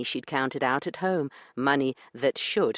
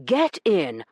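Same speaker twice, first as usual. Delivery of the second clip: 1 hissed; 5 semitones higher, 6 dB louder than usual. Acted. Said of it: "Corbin hissed at her".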